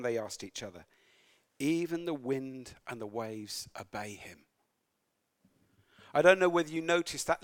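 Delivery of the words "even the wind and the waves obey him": a hushed whisper, low and soft; awed whisper. Acted. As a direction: breathe it in frightened awe. Awed disciples speak among themselves.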